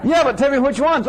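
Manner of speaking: high, coaxing counter-question; mock patient reply. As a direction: gently push back on the demand. Teacher answers customer in anecdote.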